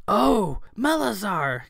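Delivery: light up at a familiar name; happy. A narrator's reading. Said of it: "Kat said happily".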